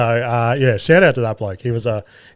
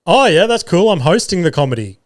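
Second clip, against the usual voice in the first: overeager blurt; 6 semitones higher than usual. Retold or imitated. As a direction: blurt it out like an eager idiot. My dumb fucking head did this.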